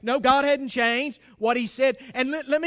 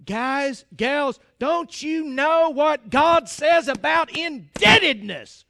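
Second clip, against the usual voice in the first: louder, slower appeal to Washington; imagined scolding; 2 semitones higher, 4 dB louder, slower than usual. Pretend. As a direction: lecture the lawmakers with raised voice. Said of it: "I want to say".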